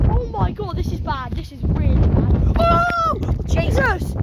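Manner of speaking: high, loud, scared exclaiming; rattled after nearly falling; shaken and scared. Real, not acted. Blown off the wall.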